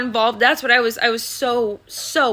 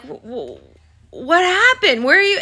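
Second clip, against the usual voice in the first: a mother waking to cops, asking in alarm; panicked questions; 4 dB louder than usual. Retold or imitated. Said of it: "I'm like".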